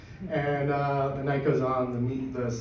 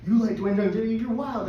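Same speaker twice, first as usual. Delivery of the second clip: raised-pitch mock astonishment; acted amazement; 8 semitones higher than usual. Koreans stoked at a foreigner's order, amazed. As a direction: act out an amazed local, voice lifted high.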